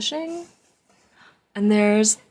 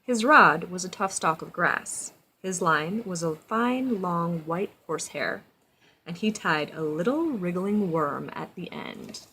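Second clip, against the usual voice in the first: storybook narration; 3 semitones lower than usual. A narrator's reading. Reads storybook aloud to child.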